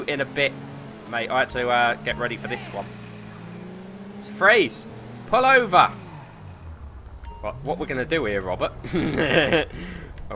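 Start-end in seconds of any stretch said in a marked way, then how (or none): 4.4-5.9 cop command. Acted. Cop to fleeing car, mock-stern command. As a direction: order them to stop.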